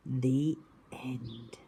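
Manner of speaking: soft whispered close; storybook ending. A narrator's reading. Teacher whispers the end to the class. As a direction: let the story settle.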